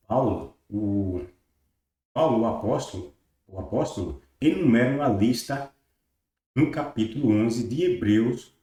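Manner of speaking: measured, emphatic reading of a text; formal read-aloud. Acted. Teacher reading a religious source text to viewers, formal read-aloud. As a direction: read it out firmly with deliberate phrasing.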